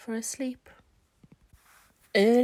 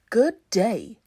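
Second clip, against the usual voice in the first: cocky greeting; 8 dB louder than usual. Acted. New scarecrow introduces himself.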